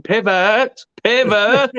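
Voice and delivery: mock shouting pivot. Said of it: "I'm just gonna be shouting".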